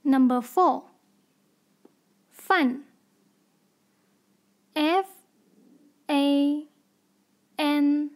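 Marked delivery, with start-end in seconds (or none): 2.3-2.8 饭 in a falling fourth tone. Shown as a demonstration. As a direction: drop the pitch sharply through 饭. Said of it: "fourth tone".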